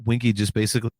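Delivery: talking through hiccups; hiccuping between words. Real, not acted. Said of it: "I'm hiccuping like crazy".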